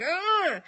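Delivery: mimicked defiant "ugh"; drawn-out mock growl of defiance; defiant grunt. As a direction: grunt like a fed-up kid. Imitates a defiant angry child.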